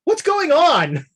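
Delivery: slow, high call. Acted. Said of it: "you hear Jared go".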